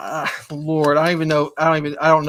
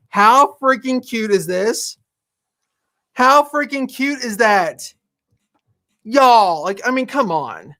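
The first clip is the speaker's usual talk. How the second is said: excited; 4 semitones higher, slower than usual. Real, not acted. Gushing over finished shirt.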